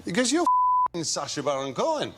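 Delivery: lightly attempted Grimsby accent; a hint of a northern English pub local. Pub bloke recognising a celebrity, rough attempt at a Grimsby accent. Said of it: "the accent is totally wrong".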